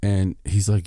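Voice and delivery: normal talking voice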